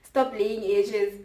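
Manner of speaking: slow preachy slogan read. Retold or imitated. Mocking a girl's post caption, slow and preachy. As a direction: drag out the caption. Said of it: "And it's like".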